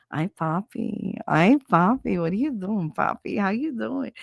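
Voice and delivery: lightly voiced sultry Papi purr; a hint of Rosie Perez, teasing. Phone sex caller voice, a light sultry Papi. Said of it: "the Rosie Perez Papi voice".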